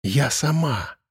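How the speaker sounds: soft whispered resolve. A narrator's reading. Elza to Arkhip, soft whisper. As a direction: whisper it firmly. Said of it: "тихий шёпот".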